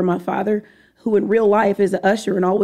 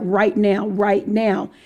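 put-on forceful, commanding tone. Retelling a father's order in a dream: imitating a forceful command. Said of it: "And it was very forceful".

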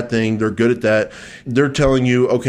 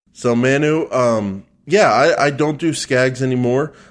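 usual speaking voice

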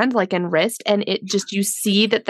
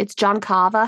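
put-on Boston accent. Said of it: "we do have to talk about the accents in this movie".

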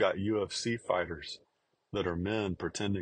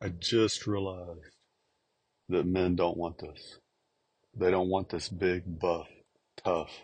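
put-on tearful, crying speech. Recounting what a crying athlete said, imitating someone crying. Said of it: "she was sitting here crying, going".

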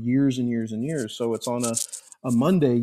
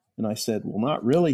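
ordinary talk, nothing marked

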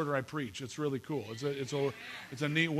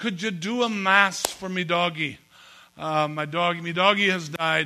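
put-on Irish accent; 2 semitones higher than usual. Telling a joke, a lonely man asks his priest for a mass, irish accent. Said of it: "This is my Irish accent".

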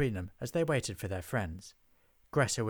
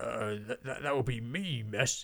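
stammering, stuttering, much slower. Beef answers a witch demanding the proprietor, stammering. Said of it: "stammered Beef".

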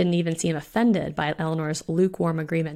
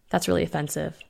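flat, dry, deadpan delivery. Eleanor replies to Bellamy, who wants her through the door first; deadpan. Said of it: "said Eleanor in a deadpan voice".

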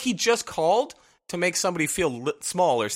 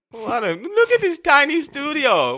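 exaggerated European accent, pitched way up; 10 semitones higher than usual. Retelling what a client said about the studio: imitating a client's put-on European accent. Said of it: "I'm doing too much of an accent".

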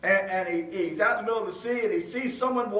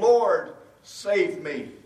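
mock pleading, urgent and desperate cry; 3 dB louder than usual. Retelling Peter's prayer while sinking: acting out urgent, desperate prayer. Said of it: "So with urgency and desperation".

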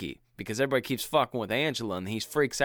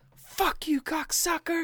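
put-on very high-pitched little kid voice. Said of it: "a child cussing".

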